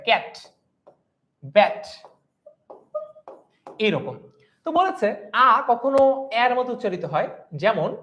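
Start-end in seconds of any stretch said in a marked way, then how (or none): 0.1-1.8 ক্যাট and ব্যাট, each alone with a clear æ vowel; teacher modelling the æ sound in ক্যাট, ব্যাট; open "a" vowel demo. Shown as a demonstration. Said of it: "এইরকম অনেকটা উচ্চারণ হয়".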